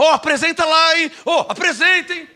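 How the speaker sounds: mock offhand plea, high; tossed-off, pestering mimicry; lazy request. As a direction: imitate a sister too lazy to finish. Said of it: "ela era tão preguiçosa que ela falava assim".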